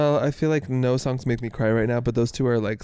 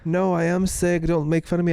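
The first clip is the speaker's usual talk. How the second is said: indignant insistence; 5 semitones higher than usual. Retold or imitated. Sick partner objecting to being laughed at, indignant.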